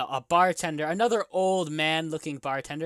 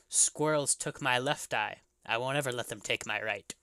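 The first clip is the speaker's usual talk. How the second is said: put-on old bartender; 4 semitones lower, 5 dB quieter than usual. Bartender tells of eye.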